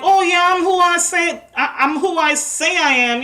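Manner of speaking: lightly hammed-up attitude on the phone; imitating attitude. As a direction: toss it back with mock attitude. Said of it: "Rosa had an attitude".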